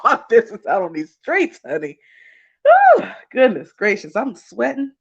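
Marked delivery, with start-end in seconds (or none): 2.6-4.9 flustered and fanning herself, a bit breathless; higher, real flustered gush. Real, not acted. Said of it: "getting all flustered".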